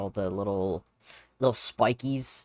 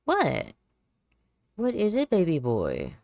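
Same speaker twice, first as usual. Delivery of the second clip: high, loud cooing pet voice; 6 semitones higher, 5 dB louder than usual. Real, not acted. Working alone, cooing to her cat's meows.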